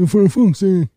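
high squeaky frustrated curse; high impediment voice. Acted. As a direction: curse the bus in a high put-on voice. Fella cursing again.

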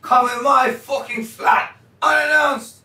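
put-on British accent, slow and mock-offended. Derek scolding the film crew in a mock British accent. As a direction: camp it up in a London accent, slowed right down. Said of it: "Is that a British accent?".

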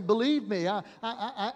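insist, flustered and pressed; stammering doctor under pressure; doctor pleading. Retold or imitated. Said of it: "And the doctor replied".

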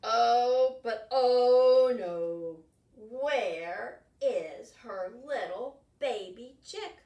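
slow loud oh no; dismay. Acted. Teacher reading the chick is missing, alarmed. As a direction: draw out the alarm.

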